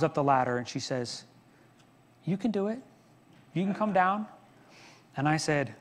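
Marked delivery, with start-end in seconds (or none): 2.2-4.3 calm reassurance. Retold or imitated. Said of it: "she was very peaceful and calm".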